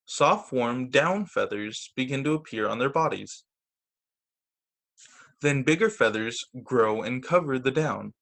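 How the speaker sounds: gentle storybook narration; patient picture-book read-aloud; reading to children. A narrator's reading.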